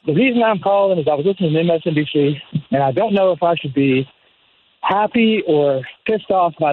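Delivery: breathless after a run; out of breath. Real, not acted. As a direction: talk while catching your breath. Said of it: "I'm out of breath 'cause I was out running".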